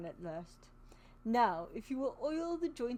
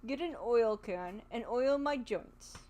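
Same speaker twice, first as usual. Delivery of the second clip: sad voice. Acted. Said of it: "the sad voice in which the man spoke".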